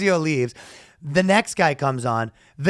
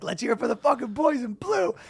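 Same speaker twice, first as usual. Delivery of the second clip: mock emcee hype; 6 semitones higher, 4 dB quieter than usual. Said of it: "He's like".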